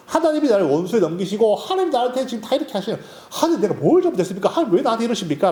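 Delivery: fast, rising protest, words tumbling out; rushed complaint. Retold or imitated. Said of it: "불평과 불만을 다 쏟아놓는 거예요".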